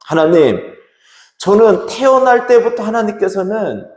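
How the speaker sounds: high, insistent appeal to God; acted prayer of a sufferer holding on; pleading prayer. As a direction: plead upward, falling away at the end. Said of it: "뭐라고 기도합니까?".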